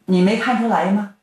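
a storyteller lightly voicing a vengeful bandit, pitch jumping up on threats. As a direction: lightly play the bandit sneering out his revenge. Villain confronts Ruan Ying. (说书人略带起伏地扮演复仇的强盗)

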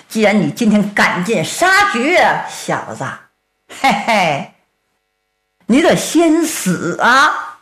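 cold, sneering death threat; menacing villain. Acted. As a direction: gloat over the fallen man. Villain threatens the fallen Tang.

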